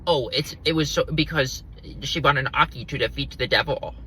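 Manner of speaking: mocking quote. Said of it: "People say".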